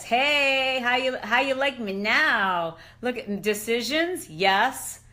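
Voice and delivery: loud, slow taunt; gloating. Real, not acted. Showing off her healed brain scan, a loud slow gloat. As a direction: rub it in proudly.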